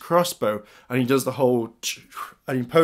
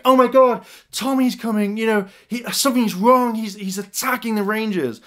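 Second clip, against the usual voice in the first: acted panic; 9 semitones higher than usual. Gia warning the Rangers of an attack, panicked. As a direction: raise the alarm, voice pitched way up.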